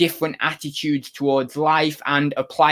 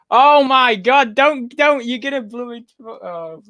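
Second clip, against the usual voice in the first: higher, alarmed "don't, don't"; alarmed cry; 8 semitones higher, 4 dB louder, slower than usual. Real, not acted. Streamer to cat on the keyboard, sudden high alarm. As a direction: stop the cat in a sudden panic.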